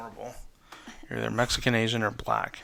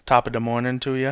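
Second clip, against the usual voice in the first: put-on leprechaun Irish accent; faster than usual. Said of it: "that what leprechauns say?".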